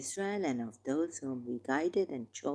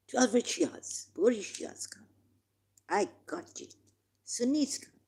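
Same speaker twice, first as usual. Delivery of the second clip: higher, excited summons to each group; preacher eagerly calling every sect in, pitched higher; 6 semitones higher than usual. Real, not acted. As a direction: call each group forward, rising with excitement.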